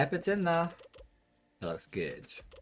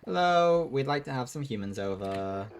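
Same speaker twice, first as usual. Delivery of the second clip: calling out hello; 5 semitones higher, 6 dB louder than usual. Acted. Calling out to network.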